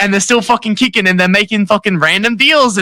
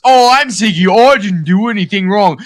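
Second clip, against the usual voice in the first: mocking self-righteous. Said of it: "You're so self-righteous".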